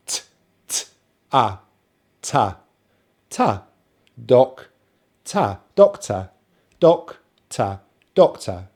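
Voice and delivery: low weak "ta", firmer "doc", then joined; sound-by-sound drill. Shown as a demonstration. Teacher assembling the word, syllable drill. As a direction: build "doctor" from t, schwa, ta, doc. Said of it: "we start with the T".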